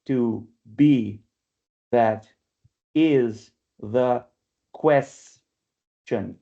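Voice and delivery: "To be, that is the question" in separate beats, with pauses; syllable-by-syllable scansion. Shown as a demonstration. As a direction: break up "To be, that is the question", stressing "be", "is" and the first syllable of "question". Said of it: "that's where the strong syllable is".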